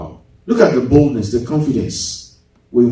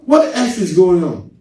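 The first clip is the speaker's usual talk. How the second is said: mock yell; 2 semitones higher than usual. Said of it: "He was talking loud".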